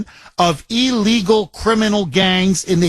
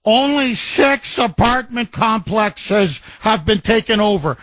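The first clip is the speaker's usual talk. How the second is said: mocking quote; 2 semitones higher than usual. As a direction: drag it out like a sarcastic sneer. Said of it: "people were laughing at her".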